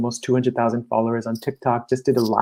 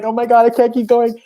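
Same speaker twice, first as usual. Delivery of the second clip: imitating an overwhelmed client, much higher and louder; mock overwhelm; 11 semitones higher, 6 dB louder than usual. Coach retelling a client's inner work, hammed-up higher, louder despair. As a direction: play the exhausted climber, pitched way up. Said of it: "And it's like".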